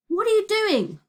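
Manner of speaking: loud, high, indignant question; demanding. A narrator's reading. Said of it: "demanded Virgo".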